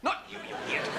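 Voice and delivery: unvoiced urgent whisper, hiding; hushed panic behind the door. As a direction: whisper it so the wife can't hear. Hiding from wife, hushing.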